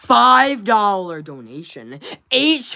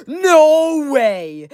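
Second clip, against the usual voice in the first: surprised; 7 semitones higher, 5 dB louder than usual. Real, not acted. Reacts to a donation.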